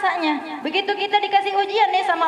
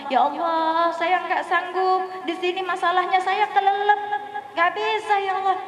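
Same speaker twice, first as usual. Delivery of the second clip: weary plea; 3 semitones higher than usual. Retold or imitated. Drowning traveller complains to Allah.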